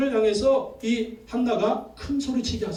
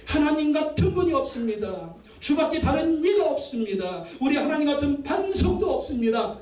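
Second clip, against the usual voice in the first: each 없습니다 ringing out higher; emphatic repetition; 6 semitones higher than usual. Shown as a demonstration. Preacher proclaiming Hannah's confession to the church, emphatic. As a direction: declare 하나님 같은 분이 없습니다 with rising conviction. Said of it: "세 번 반복해요".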